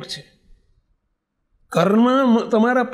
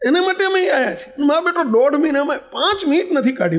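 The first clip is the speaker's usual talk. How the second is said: higher, hurt outcry; anguished lament; 6 semitones higher than usual. Retold or imitated. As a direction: cry out the grievance. Old father's lament peaks. (દીકરાની ઉપેક્ષાથી દુઃખી પિતાનો ઊંચો પોકાર)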